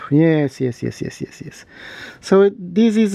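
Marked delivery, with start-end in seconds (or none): 0.8-1.6 breathy whispered yeses; whispering. Real, not acted. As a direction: whisper it to yourself. Repeats yes under breath.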